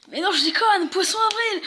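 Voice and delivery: big laugh breaking through the words. Real, not acted. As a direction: crack up while confessing the prank. Aveu de la blague, éclate de rire. (éclat de rire en avouant la blague)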